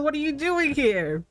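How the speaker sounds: strained, choking on a drink. Real, not acted. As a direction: push words through a cough. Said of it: "I'm choking on my drink".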